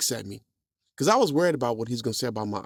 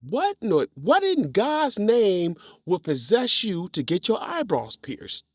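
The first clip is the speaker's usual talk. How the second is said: a hint of a scolding father, higher; stern dad voice; 9 semitones higher, 3 dB louder, slower than usual. Dad scolding his son about the eyebrow piercing, mock stern. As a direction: ask like a shocked, stern dad. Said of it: "He goes".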